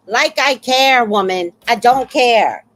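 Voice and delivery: fed-up, punchy outburst; exasperated retort. Acted. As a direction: snap back loudly at a bragger. Mock retort to bragging neighbor.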